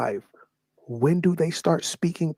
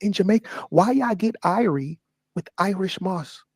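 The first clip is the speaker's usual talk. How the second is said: mock outrage; 4 semitones higher than usual.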